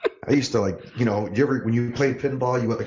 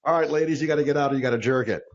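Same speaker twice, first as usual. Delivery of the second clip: bouncer voice; 4 semitones higher, much faster than usual. Retold or imitated. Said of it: "that was my line when I was a bouncer".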